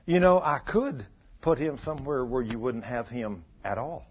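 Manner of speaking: low, softened voice of God; little voice. Retold or imitated. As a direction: speak softly and low, as an inner voice. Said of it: "I heard this little voice".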